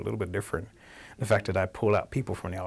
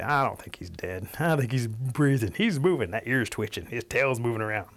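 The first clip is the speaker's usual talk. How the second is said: growing doubt, picking out each clue; suspicious turkeys; 3 semitones higher than usual. Acted. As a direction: voice mildly suspicious onlookers. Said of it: "So they're all suspicious".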